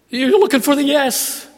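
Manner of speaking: emphatic. Acted. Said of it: "emphasis, repeated line".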